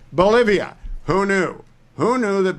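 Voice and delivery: high, loud burst of surprise; surprised. Real, not acted. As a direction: exclaim it like news to you. Surprised at Bolivia's rare earths.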